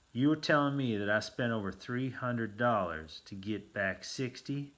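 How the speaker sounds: loud, rising disbelief, slowing at the end; aghast. A narrator's reading. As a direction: demand it in stunned outrage. Narrator aghast at loss.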